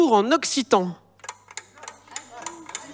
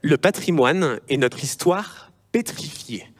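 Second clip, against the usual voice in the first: reading a party text; 6 semitones lower than usual. Acted. Host reading a party's heritage programme in a lightly solemn tone. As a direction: read the manifesto lines with mild gravity. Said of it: "je vous lis le volet".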